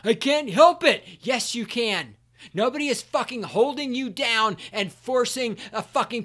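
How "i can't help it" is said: high, loud whiny mock excuse; mocking whine. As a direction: whine it like a lazy excuse-maker. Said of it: "mocking fat people's excuse".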